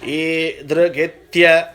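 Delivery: "Idrigitya." slowly, opening E held long. Shown as a demonstration. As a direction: stretch the first E in "Idrigitya.". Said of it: "Whatever you think you're saying long, double it". ("Idrigitya." में दीर्घ ई)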